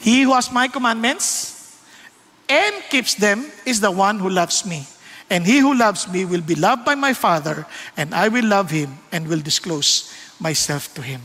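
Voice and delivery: slow, measured Bible reading; scripture reading. Acted. Preacher reads God's words to the congregation, slow scripture reading. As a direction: read the verse out deliberately, phrase by phrase.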